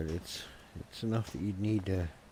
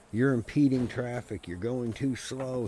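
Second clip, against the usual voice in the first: loud, high mock shout at the driver; retold yell; 5 semitones higher, 6 dB louder than usual. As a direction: bark it like an angry cop passing. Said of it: "he yells at me".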